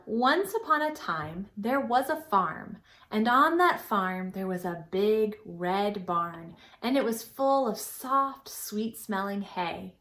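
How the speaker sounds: gentle story-time narration; storytelling. Acted. Teacher starting a farm story for young children, gently.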